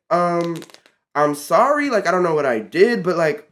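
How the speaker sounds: retold firm refusal with attitude; indignant pushback. Teen refusing coworker's order, retold indignant pushback. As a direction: stand your ground, mildly indignant. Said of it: "I literally said it just like that".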